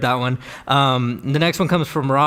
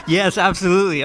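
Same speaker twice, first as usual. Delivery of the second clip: laughing agreement; 5 semitones higher than usual. Retold or imitated. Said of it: "I'm just like".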